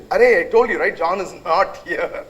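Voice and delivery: hammed-up annoyance at repeat caller; losing it. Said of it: "that guy is kind of losing it".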